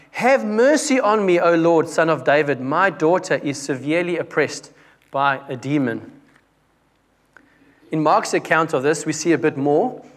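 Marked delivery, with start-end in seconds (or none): 2.6-6.1 scripture reading. Acted. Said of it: "Verse twenty-two".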